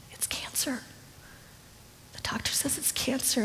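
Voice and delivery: softly whispered dread; hushed whisper. Retold or imitated. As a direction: barely breathe the words. Retold breaking the news.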